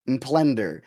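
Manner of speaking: Mplender with an MP at the start; Mplender, said as the Greek spelling reads. Shown as a demonstration. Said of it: "was spelled".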